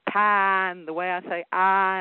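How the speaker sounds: Southern drawn-out "pie" and "I"; Southern accent. Shown as a demonstration. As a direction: show off your Southern vowels on "pie" and "I". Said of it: "get over my Southern accent".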